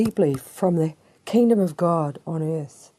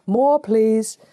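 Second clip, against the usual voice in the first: put-on raised, higher voice of a child asking; eager little child; 5 semitones higher, 5 dB louder than usual. Preacher playing children wanting another drink, eager child voice. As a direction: beg like a thirsty little child. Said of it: "we drink like little children".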